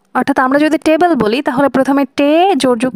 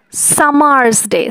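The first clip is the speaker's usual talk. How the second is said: সামার্স ডে said slow, split into beats; syllable by syllable; slower than usual. Shown as a demonstration. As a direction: tap out সামার্স ডে beat by beat. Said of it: "এখানে সামার্স দুইটা syllable". (সামার্স ডে ধীরে, syllable ভেঙে)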